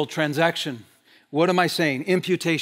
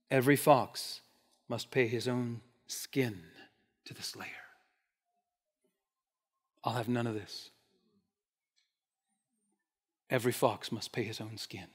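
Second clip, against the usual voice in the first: quoted Jewish response; 9 semitones lower, 11 dB quieter than usual. Retold or imitated. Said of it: "and I quote".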